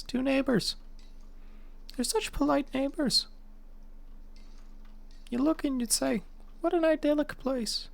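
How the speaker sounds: put-on Irish accent, lilting high in places. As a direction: play it as an Irish storyteller. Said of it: "I was doing the Irish accent".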